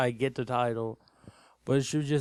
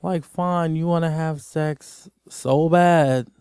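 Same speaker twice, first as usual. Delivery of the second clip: louder, slow, fed-up; exasperated outburst; 7 dB louder, slower than usual. Real, not acted. Ranting at Debbie, a louder slow exasperated outburst. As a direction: let it out, you've had enough.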